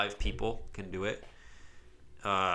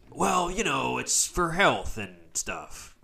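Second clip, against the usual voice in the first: mock excuse; 5 semitones higher, 4 dB louder, slower than usual. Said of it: "I'm the kind of guy where I'm like".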